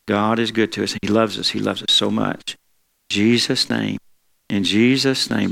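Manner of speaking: intercessory prayer for a sister; healing prayer. Acted. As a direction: lay hands on her with words. Prays for sister's surgery.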